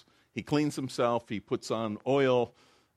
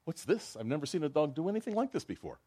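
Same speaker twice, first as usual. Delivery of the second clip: Mrs Goldstein amazed; 6 semitones higher, faster than usual. Acted. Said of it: "Missus Goldstein says".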